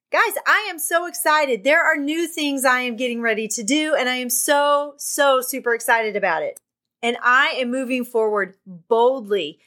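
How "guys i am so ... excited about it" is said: excited. Real, not acted. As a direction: let real excitement spill into the words. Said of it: "you can hear the excitement in my voice".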